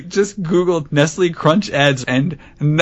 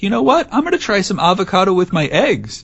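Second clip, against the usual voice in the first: higher, lightly acted whim; mock-spontaneous decision, pitched up; casual resolve; 6 semitones higher than usual. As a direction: imitate someone breezily trying something new. Casually voicing a decider.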